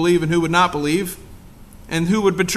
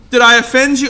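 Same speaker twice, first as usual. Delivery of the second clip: Did I offend you? repeated louder and higher, stressing I; sarcastic repeat; 5 semitones higher, 8 dB louder, faster than usual. Pretend. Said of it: "that's not what it says".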